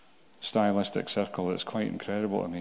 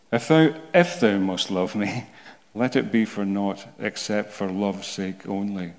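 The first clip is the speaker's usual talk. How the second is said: dramatic poetry reading. Shown as a demonstration. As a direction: read it like a deliberate performance. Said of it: "this is why I'm gonna read it badly".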